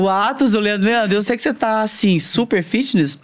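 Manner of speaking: talking with a mouth full of cake. Real, not acted. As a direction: chew and talk at once, mouth full. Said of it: "Tô falando com a boca cheia".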